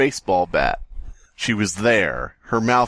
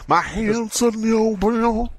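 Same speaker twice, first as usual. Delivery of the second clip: mock dramatic; 11 semitones higher than usual. Rereading line in high voice.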